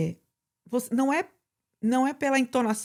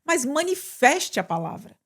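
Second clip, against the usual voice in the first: urging class. Retold or imitated. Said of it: "o que eu sempre falo na sala de aula".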